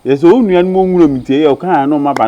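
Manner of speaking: loud, indignant outburst; loud protest. Acted. Protesting to the other about relatives coming, loud outburst. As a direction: raise your voice sharply in protest.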